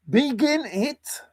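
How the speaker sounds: silly squeaky voice. Pretend. Playful squeaky voice commands.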